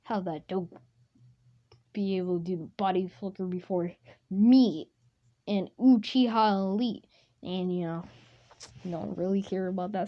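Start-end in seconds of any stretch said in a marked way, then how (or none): 0.0-7.1 mildly mad. Retold or imitated. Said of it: "gonna be all mad and stuff".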